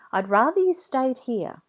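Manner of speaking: hesitant mum. A narrator's reading. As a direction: hum it out, unsure, as the mum. Mum refusing gently.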